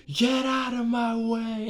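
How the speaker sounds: high, mock witch snarl. Witch shoving everyone aside, in a high mock-menacing witch voice. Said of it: "the witch is all like".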